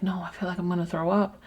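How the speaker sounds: weak whisper, barely getting it out; a nauseous, drugged whisper to the nurse; groggy whisper. Retold or imitated. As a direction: whisper it like you're half sedated. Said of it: "I'm almost, like, whispering".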